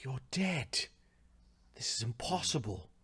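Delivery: half-whispered shock; hushed disbelief. Acted. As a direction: gasp it out softly in disbelief. Villain faces someone thought dead.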